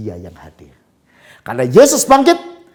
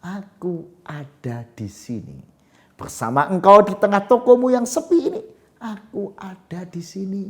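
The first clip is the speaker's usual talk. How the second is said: voice of God; 9 semitones higher, 6 dB louder than usual. Acted. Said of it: "mendengar suara".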